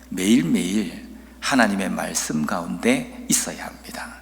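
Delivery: ordinary talk, nothing marked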